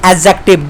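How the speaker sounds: एडजेक्टिव said without the d sound; एडजेक्टिव with the d dropped; silent d. Shown as a demonstration. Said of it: "डी word यहाँ पे silent होता है".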